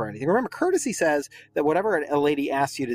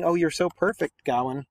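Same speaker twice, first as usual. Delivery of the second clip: gushing lady; 2 semitones higher than usual. Retold or imitated. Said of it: "She's saying".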